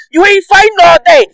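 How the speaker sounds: heated taunting yell; heated shout. Real, not acted. Ranting at Conor.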